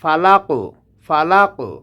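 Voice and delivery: ফালাকু with a bounce on the কু; qalqalah on qaf. Shown as a demonstration. Teacher showing the echoing qaf. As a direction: echo the ক in ফালাকু. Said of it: "কফটা কলকলার হরফ".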